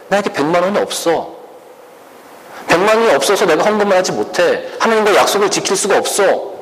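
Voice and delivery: high-pitched, mildly hammed-up protest; voiced-out excuse, pitched well up; acted helpless protest. Acts out someone unable to pay.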